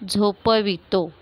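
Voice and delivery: "झोपवितो" slowly, lengthening the last two syllables; teacher's slow breakdown of "झोपवितो"; drawn-out syllables. Shown as a demonstration. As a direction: stretch out "झोपवितो" so each letter is heard. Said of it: "शेवटची दोन अक्षरं बघायचे आहेत".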